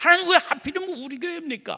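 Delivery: loud, high defiance.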